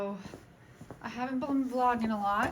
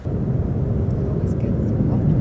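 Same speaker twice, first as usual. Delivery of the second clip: whispering; 7 dB louder, much slower than usual. Real, not acted. Whispered aside.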